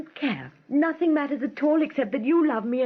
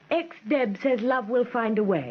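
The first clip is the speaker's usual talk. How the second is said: headline voice; slower than usual. Acted. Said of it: "Can't I have a headline".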